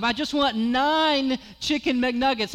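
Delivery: overly loud, slow tourist English. Retold or imitated. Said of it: "If I say it louder".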